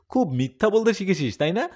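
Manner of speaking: father loudly scolds son over a fight; father scolding. Acted. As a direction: bark at the boy like a strict father. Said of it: "বাবা ধমক দিয়ে বলল".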